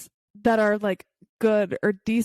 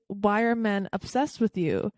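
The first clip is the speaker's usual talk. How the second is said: "obsessed" picked out with deliberate emphasis; stress on OBSESSED. Real, not acted. Friend puts a pointed question to her, stressing "obsessed". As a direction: lean on the word "obsessed". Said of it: "wanna emphasize the word obsessed".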